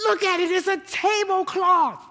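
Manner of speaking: hammed-up exasperated wife voice; mock fussy wife. Wife's scold continues.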